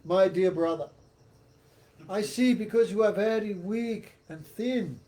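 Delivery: sarcastic king, lightly acted; mock sympathy. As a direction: lay on pretended concern for the servant. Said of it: "spoke many sarcastic words to Bharat".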